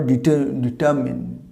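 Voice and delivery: ডিটারমিন ending in "min"; corrected ডিটারমিন. Shown as a demonstration. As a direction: break off at ডিটার-, then say ডিটারমিন whole. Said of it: "উচ্চারণ হবে".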